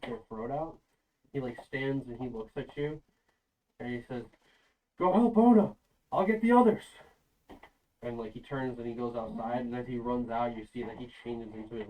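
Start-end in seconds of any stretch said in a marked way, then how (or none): 5.0-6.8 loud, higher commanding call; urgent shout. Acted. Fenrir to the party, loud urgent command. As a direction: bark the order and go. Fenrir urging during fight.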